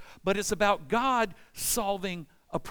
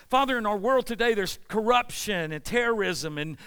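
loud pleading prayer; 4 dB louder than usual. Acted. Voicing a lament prayer to God.

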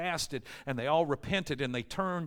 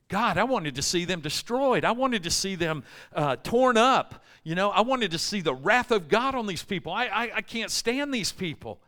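angry Jonah; 4 semitones higher than usual. Retold or imitated. Jonah angry at God spared Ninevites.

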